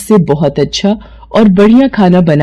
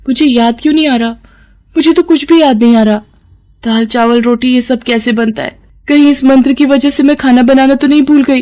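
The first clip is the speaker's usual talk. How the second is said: put-on higher, lively young woman's voice, puzzled then panicking; a higher young woman growing more alarmed; young sister-in-law; 4 semitones higher than usual. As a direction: play the nosy sister-in-law who loses her cooking.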